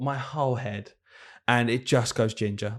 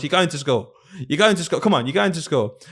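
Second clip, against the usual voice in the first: insistent mum; 5 semitones higher than usual. Retold or imitated. Mum insisting in retold story.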